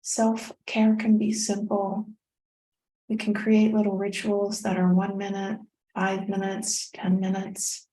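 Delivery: calm meditation guide with long pauses; unhurried, guiding the listener through each breath; guided meditation. Real, not acted. Continues leading the meditation.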